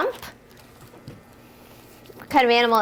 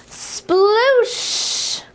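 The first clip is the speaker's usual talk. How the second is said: high, bright Sploosh!; splashy sound word; 8 semitones higher than usual. Acted. Teacher ending a whale rhyme for kids, playful splash word. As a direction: make the splash big and fun.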